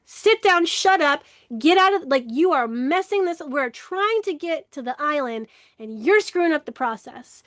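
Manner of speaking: mock-impatient reprimand; acted scolding. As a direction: tell off a troublemaker who is wrecking things. Acted scolding of a triggered part.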